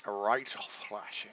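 slow, lightly mimicked game voice; mimicked battle line. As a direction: echo the game clip, drawn out slowly. Mimics game voice clip just played.

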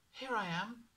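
put-on boy nervously answering; small boy's timid reply; young boy. A narrator's reading.

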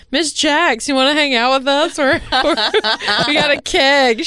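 retold partying parents. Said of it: "parents are always like".

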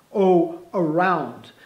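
around drawn out slowly; slow model word. Shown as a demonstration. Teacher modelling the word for students. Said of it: "falaríamos muito mais about".

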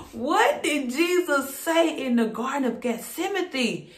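asking through a laugh; excited preacher laughing as he asks; laughing with excitement. Real, not acted. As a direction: let the excitement spill into laughter. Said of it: "I'm getting excited".

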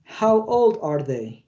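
slow, careful repeat after the audio. Shown as a demonstration. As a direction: say it slowly, word by word. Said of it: "Traten de repetir tal como lo escuchan". (repetición lenta y cuidadosa)

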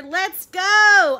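loud, high, urging shout; calling out. A narrator's reading. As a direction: holler to hurry him along. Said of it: "called his father".

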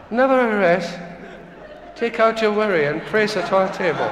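lightly imitated Japanese doctor's accent. Japanese doctor insists to reluctant patient, mock Japanese accent. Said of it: "It's a wee Japanese doctor".

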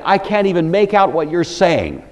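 baffled denial. Acted. Preacher voices Peter's denial to accusers, mock baffled. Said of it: "It'd be more like saying".

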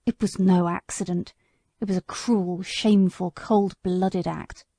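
a hint of a wounded old horse remembering; bitter old horse. Sir Oliver tells his story.

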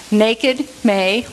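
"Naked, may" with each A held long; long A sounds. Shown as a demonstration. Teacher listing examples from the verse, long A sounds. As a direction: set "Naked" and "may" apart, dwelling on the A. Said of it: "long A sounds".

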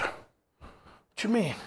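slow, soft, drawn-out what you mean; a hammed-up, slowed gasp of disbelief; stunned disbelief. Mock stunned reaction.

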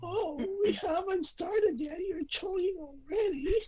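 lightly put-on cartoon voice; a hint of bad anime voice acting; distracting put-on voice. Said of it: "distract them with my voice".

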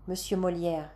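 plain reading voice

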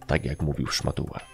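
ordinary delivery

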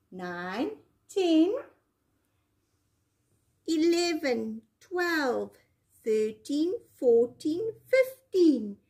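counting with a rising lilt; teaching a child to count. Shown as a demonstration. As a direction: numbers called out slowly to join in. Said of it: "Can you count with me and help me?".

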